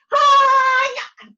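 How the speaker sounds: high, loud battle cry; karate yell. Acted. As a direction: throw everything into a karate shout. Hits head on the ground.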